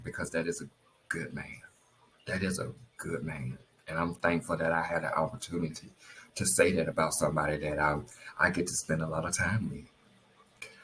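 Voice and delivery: low, hushed, holding back tears; getting emotional. Real, not acted. Wife praising her good man while tearing up, emotional and subdued. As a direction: let it sink softly with feeling. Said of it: "I'm just getting emotional about that".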